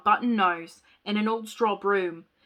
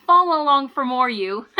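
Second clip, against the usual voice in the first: radio announcer voice, bright and louder; customer service voice; 3 semitones higher, 7 dB louder than usual. Acted. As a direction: sell it like a radio host. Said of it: "my customer service radio voice".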